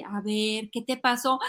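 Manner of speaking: soft, calm check-in; conscious mom. Acted. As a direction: gently ask a crying child. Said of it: "una mamá consultora y consciente". (mamá consciente, con calma y suave)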